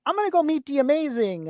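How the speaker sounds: a hint of an eager kid; little brother's voice. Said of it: "you do the voice".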